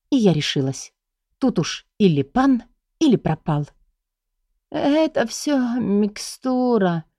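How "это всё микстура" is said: higher, very slow, put-on feebleness; feigned dying voice. Heroine fakes illness for her guardian, slow dying voice. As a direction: play the invalid, barely pushing the words out. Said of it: "произнесла умирающим голосом".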